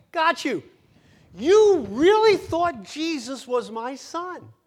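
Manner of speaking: Satan shrieking in triumph at the people he tricked; gloating devil. Retold or imitated. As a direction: cackle over the fooled victim. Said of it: "Satan wants you to go".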